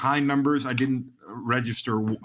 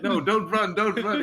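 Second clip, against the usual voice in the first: gentle; 8 semitones higher than usual. Retold or imitated. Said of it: "just gently putting your hand".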